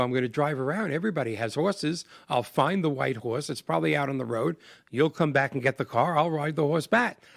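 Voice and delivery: high-pitched, frantic, panicking voice. Retelling what he told his daughter about finding the horse: imitating his own panic. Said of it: "I'm panicking".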